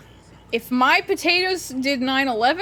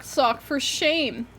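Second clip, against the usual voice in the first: mock scolding; 3 semitones higher, much slower than usual. Real, not acted.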